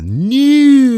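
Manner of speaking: high, drawn-out, loud radio shout; Robin Williams homage. Retold or imitated. Podcaster opens the good news segment, hammed-up Robin Williams. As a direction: stretch it out like a wild DJ wake-up call. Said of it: "So, Robin Williams".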